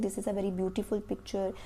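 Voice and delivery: slow, soft, word by word; slow dictation of an example sentence; slow model sentence. Shown as a demonstration. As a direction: read it out slowly for the class to copy. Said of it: "तो आप ये भी कह सकते हो".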